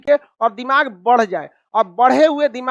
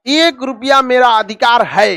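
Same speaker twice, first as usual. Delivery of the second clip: mock stubborn boy. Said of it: "एक लड़का आके रिजिड हो".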